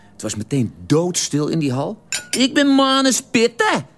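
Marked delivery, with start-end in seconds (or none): 2.3-3.9 menacing boast. Retold or imitated. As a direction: slowly announce the feared family name. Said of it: "toen ontplofte die".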